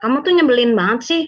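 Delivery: quick, mildly annoyed complaint; judging. Shown as a demonstration. Partner finding the other annoying, judging. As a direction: judge your partner in a quick burst. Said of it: "kita menjudge dia".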